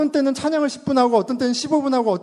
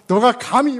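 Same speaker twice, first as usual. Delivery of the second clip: stern rebuke; 3 semitones higher, slower than usual. Retold or imitated. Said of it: "더 확 잡죠".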